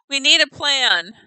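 reading Ulri's line. Retold or imitated. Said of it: "Ulri says".

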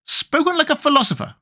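high, lofty Wogglebug voice; a lightly voiced pompous insect. A narrator's reading.

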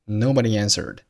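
nobody answered joined by a faint y glide; no break between nobody and answered, light y between; vowel linking. Shown as a demonstration. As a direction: slide from nobody into answered, "nobody-yanswered". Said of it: "Nobody和answered发生了元音连读".

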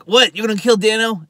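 high, loud disbelief; mock shock. McGarrett hears the threat to kill Dano, shocked. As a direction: echo the threat in acted astonishment.

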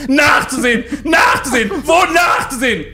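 high, loud furious shout; wütend schreiend. Retold or imitated. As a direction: scream the word back at her. (laut schreiend wiederholt)

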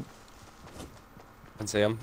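hushed whisper, slow. Real, not acted. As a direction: breathe it out in a whisper. Spotting enemies quietly.

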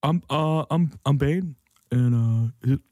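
a lightly voiced Bane, mostly his own voice; a half-hearted Bane impression, underplayed. Comic host doing a weekly Bane impression for his co-host, lightly voiced. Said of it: "That was my Bane impression of the week".

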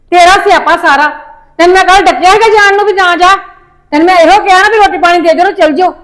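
loud, sharp scolding of her husband; angry scolding. Acted. Mother scolding her husband over the missed trip, loud and angry. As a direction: snap at him, fed up and loud.

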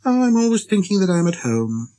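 put-on high child-prince voice; little prince, amused. A narrator's reading. Little prince laughing at himself to the pilot, amused. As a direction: muse aloud in a high little voice. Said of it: "you laughed to yourself".

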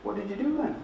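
high, hesitant nan with long pause; deflated nana. Retold or imitated. Nana puzzled by the grandchild's book, slowing down, deflated. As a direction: let the enthusiasm drain as imitated nan. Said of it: "you could see her slowing down".

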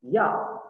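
rising tone on "Yao"; tone demo. Shown as a demonstration. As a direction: lift the tone on "Yao". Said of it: "Hati-hati nadanya".

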